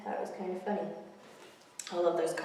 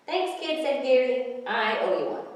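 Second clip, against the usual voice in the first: happy gull; 6 semitones higher, 7 dB louder than usual. Acted. Gary grateful.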